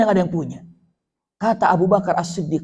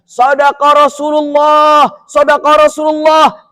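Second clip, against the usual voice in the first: tearful; 6 semitones higher, 5 dB louder, slower than usual. A narrator's reading. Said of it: "berlinang air mata Abu Bakar".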